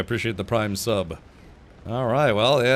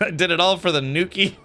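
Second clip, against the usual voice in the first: laughing; 7 semitones higher, 4 dB louder than usual. Real, not acted. Laughs at joke pun.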